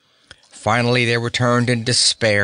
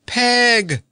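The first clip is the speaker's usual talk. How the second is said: high, overjoyed cry; joyful cry; 13 semitones higher, 3 dB louder than usual. A narrator's reading. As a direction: cry out her name in delight. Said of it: "cried the old gentleman".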